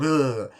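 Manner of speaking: short imitated monster noise; playful "ugh" behind a mask; mock spooky groan. Masked character makes a noise.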